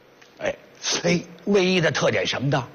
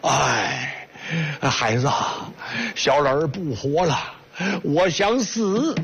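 put-on a touch of a frail old man wailing; old man's lament; 4 semitones lower, slower than usual. Old beggar wailing he wants to die. (略带哭腔的老人声)

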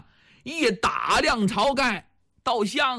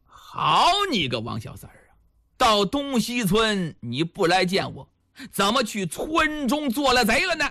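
indignant scolding. Acted. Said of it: "眉毛当时就立起来了".

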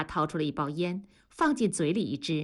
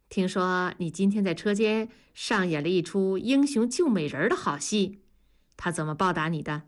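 sly teasing. Acted. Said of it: "嘿嘿的坏笑说".

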